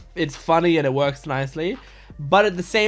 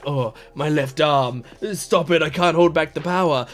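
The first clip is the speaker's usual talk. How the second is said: chuunibyou act. Acted. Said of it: "pretend to be a chuny and be like".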